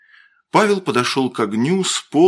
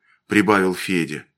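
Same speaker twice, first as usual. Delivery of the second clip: usual speaking voice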